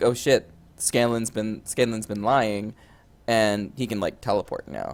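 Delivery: ordinary talk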